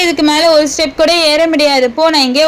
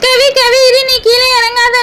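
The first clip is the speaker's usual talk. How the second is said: urgent warning; 5 semitones higher than usual. Acted. Older girl warns the little one not to climb down, urgently. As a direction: stop her from coming down.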